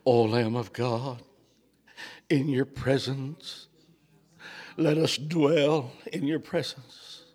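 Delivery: reverent prayer. Real, not acted. Preacher asking to dwell in God's presence, slow and reverent. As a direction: let each phrase settle slowly.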